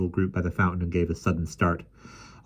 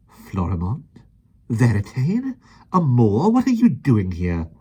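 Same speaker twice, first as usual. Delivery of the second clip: surprised questioning; 5 semitones higher, 6 dB louder, slower than usual. A narrator's reading. Mary Poppins surprised by princes.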